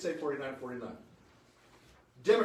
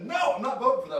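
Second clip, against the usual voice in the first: louder, firm no vote; firm refusal; 4 semitones higher, 7 dB louder, faster than usual. Retold or imitated. Senator quoting colleague's refusal, firm and loud. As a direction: plant your feet and refuse. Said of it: "and she said".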